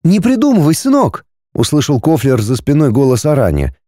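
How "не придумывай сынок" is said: higher, sharp motherly rebuke; mother scolds son, stern; mother scolding. A narrator's reading. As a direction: stop the boy's fantasy.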